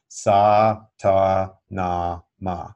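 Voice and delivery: sa, ta, na, ma said slowly and evenly, one syllable per finger; mantra syllables. Shown as a demonstration. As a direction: demonstrate each syllable of the mantra clearly. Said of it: "Pretty straightforward, okay?".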